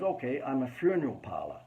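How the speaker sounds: put-on half-hearted American accent; rough stab at an American accent; attempted American accent. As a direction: badly imitate an American client. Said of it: "I can't do the American accent".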